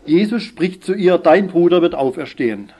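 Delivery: emphatic, projected Bible reading; Scripture reading. Real, not acted. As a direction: read the verse out to the congregation. Reads Scripture aloud.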